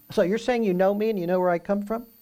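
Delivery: rising, doubtful question: "you know me and you know where I come from?". Shown as a demonstration. Preacher showing the question reading to the room, rising doubt. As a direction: ask it in disbelief, as a real question. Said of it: "you can read that as a question".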